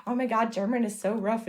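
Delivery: mock complaint. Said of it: "and it's like".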